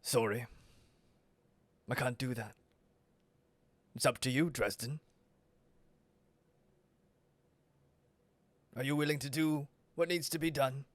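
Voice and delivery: quiet, unhurried villain, coolly refusing; Vrag. Acted. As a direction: turn them down softly, with long pauses. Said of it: "And Vrag just".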